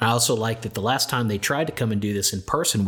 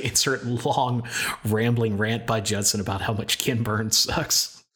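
slow, drawn-out edit note; slow quoted cue. Retold or imitated. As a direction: read the cue slowly. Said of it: "I thought you were gonna say".

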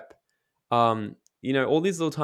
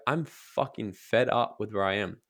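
fed-up declaration. Shown as a demonstration. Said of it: "get to the point where it's like".

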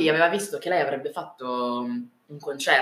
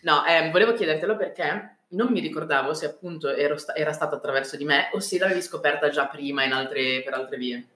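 chewing while talking. Real, not acted. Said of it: "sto mangiando un, rotolino chimico".

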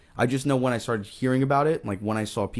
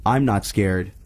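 put-on loud, defiant kid voice; a boy shouting he's not scared; brave little boy; 2 semitones lower, 5 dB louder, slower than usual. Billy voiced in story.

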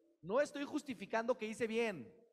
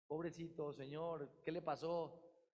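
tender concern; 2 semitones lower, slower than usual. Pretend. Helping the fallen old man.

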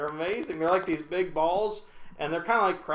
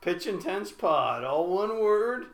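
radio voice; 3 semitones higher, slower than usual. Pretend. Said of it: "it was your radio voice".

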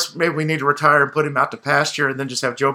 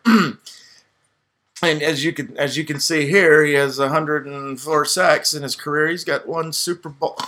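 mock dull slideshow drone, very slow; boring presenter; slower than usual. Imitating a player's dull Hall of Fame pitch, slow drone. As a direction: drag it out like a lifeless presentation. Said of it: "DeMarcus Ware is just like".

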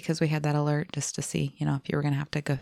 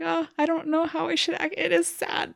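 high, fretful imitation of him; mock torn husband; 10 semitones higher than usual. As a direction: play him unsure how to react. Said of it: "But he was like".

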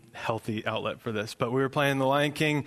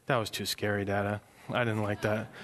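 put-on subdued child; 4 semitones lower, 4 dB quieter than usual. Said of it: "And he was like".

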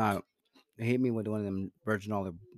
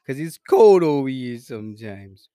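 lightly put-on Italian gangster voice; mock mobster accent; 4 dB louder than usual. Bragging to his friend in mobster character. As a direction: brag like a cartoon wiseguy. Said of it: "Yo, your accent just".

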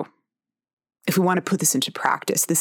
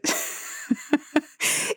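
a quick airy giggle at her own joke; high breathy laugh; 10 semitones higher, 5 dB quieter than usual. Real, not acted. Laughing at her own ovary joke, a high airy giggle. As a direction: laugh it off lightly.

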